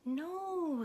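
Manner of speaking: high, eager no; eager Moo. Acted. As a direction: cut in eagerly. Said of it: "said Moo".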